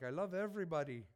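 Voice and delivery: light attempt at an Italian accent. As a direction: try a quick Italian accent, lightly done. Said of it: "That's my best Italian accent".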